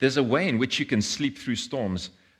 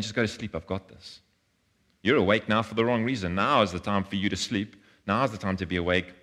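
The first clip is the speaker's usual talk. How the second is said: God reassuring. Retold or imitated. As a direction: gently tell them to let go and rest. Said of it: "God is saying".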